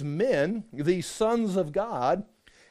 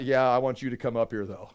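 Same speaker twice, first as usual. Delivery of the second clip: lower, relaxed insistence; calm God; 9 semitones lower than usual. Retold or imitated. God invites trembling Moses up, low calm voice. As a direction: coax him up calmly.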